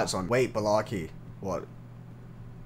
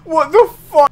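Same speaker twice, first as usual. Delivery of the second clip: high, loud, frightened cry; panicked disbelief; 11 semitones higher, 10 dB louder than usual. Real, not acted. Player shaken by the monster, panicked.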